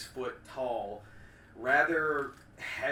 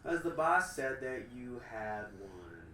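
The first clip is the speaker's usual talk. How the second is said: slow booming villain. Acted. Villain speaks slowly.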